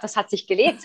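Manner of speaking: ordinary talk, nothing marked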